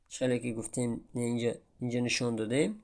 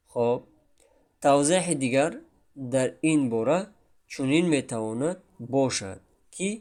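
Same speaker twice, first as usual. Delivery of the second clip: ordinary talk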